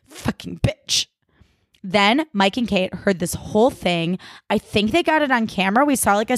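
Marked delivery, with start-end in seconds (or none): 0.1-1.1 slow, voiceless muttered insult; whispered curse. Retold or imitated. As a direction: whisper it slowly under your breath. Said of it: "she gets it together and she goes".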